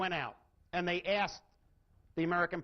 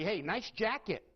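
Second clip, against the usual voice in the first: sincere compliment. Shown as a demonstration. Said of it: "I can use the exact same words and say".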